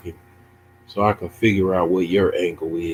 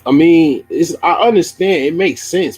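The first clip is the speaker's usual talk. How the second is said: louder, high insistent protest; loud defensive; 9 semitones higher, 8 dB louder than usual. Real, not acted. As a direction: push back hard at chat. Defensive outburst to chat.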